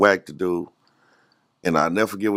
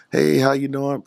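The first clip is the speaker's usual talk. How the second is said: higher, cheery mock greeting; imitated smiley doctor; 6 semitones higher, slower than usual. Devil's doctor greeting patient, imitated smiley cheer. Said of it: "She was all smiley face".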